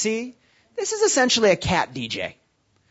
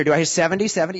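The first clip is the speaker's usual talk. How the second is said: playful auctioneer call for bids; 4 dB louder, faster than usual. Pretend. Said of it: "I feel like an auctioneer here".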